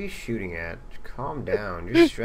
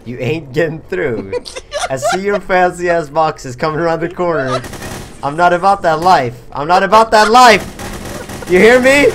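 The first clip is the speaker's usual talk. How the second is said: building from raised voice to full high yell; defiant yelling; 7 semitones higher, 13 dB louder than usual. Pretend. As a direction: yell them back, louder with every line. Yelling defiantly as attackers approach in game.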